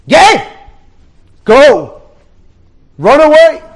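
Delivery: high, loud yelled command to flee; urgent shout. Acted. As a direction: scream at him to run. Soldier drives the German away.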